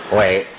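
为, stressed on its own; stressing one word. Shown as a demonstration. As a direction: hit the single word 为 firmly and low. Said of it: "你注意一个字吧".

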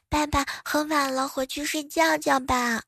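put-on high, slow little-girl coaxing; sweet toddler talk, stretched out; babyish cute voice. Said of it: "奶声奶气的说".

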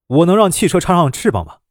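irritated sarcastic question; annoyed retort. Acted. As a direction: snap back at her, fed up. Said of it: "司机这时有些恼火". (恼火地反问)

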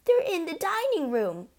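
high, loud, urgent warning; hissed alarm. A narrator's reading. Mother warns the family of burglars, urgent. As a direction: warn urgently, pitched right up. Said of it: "hissed the mother".

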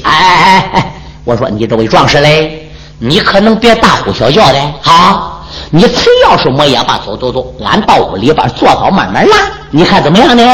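lightly voiced old man placating; old squire hushing. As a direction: hush him down, coaxing him inside. Old squire hushes and soothes.

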